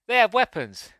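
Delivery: put-on high voice of alarm; alarmed critter. One critter to the other, alarmed mock voice.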